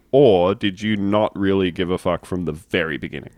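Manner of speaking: ordinary talk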